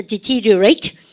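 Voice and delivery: "deteriorate" with a marked stress on "te"; stress demo. Shown as a demonstration. Teacher has students pronounce "deteriorate", stress clearly marked. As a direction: say "deteriorate" as a pronunciation model, leaning on "te". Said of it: "여기다 강세 주면서 하세요".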